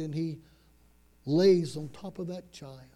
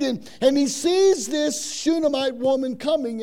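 loud, raised preaching voice; full-force preaching; 5 semitones higher, 8 dB louder than usual. Real, not acted. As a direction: drive the story forward loudly, like a preacher.

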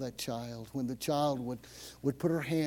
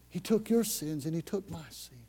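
ordinary talk

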